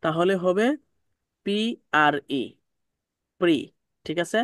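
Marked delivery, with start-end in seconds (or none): 1.5-3.6 "পি আর ই" spelt out, then joined as "প্রি"; syllable by syllable. Shown as a demonstration. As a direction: spell "পি আর ই", pause, then say "প্রি". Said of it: "ভেঙে ভেঙে পড়া যেটা". (ভেঙে ভেঙে "পি আর ই", তারপর "প্রি")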